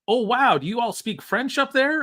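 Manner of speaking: high, loud mock of the tourist; mock American tourist. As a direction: squeak it out like a clueless tourist. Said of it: "the guy's like".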